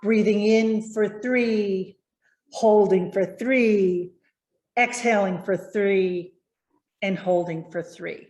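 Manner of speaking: slow, measured count with a pause after each step; slow breathing count. Shown as a demonstration. Coach leading students through box breathing, slow and measured. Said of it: "we just kind of repeat that".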